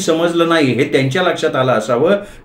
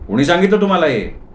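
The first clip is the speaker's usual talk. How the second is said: higher-pitched, mildly surprised question; 4 semitones higher than usual. Acted. Clerk asking the visitor who told him, mildly surprised. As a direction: ask with a touch of surprise. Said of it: "मी आश्चर्यानं विचारलं".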